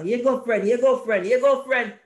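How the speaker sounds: high, loud repeated "here you go, friend"; acting out handing over. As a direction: hand it over with friendly insistence. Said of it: "you come like this".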